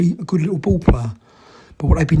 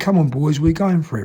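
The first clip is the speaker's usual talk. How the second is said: plain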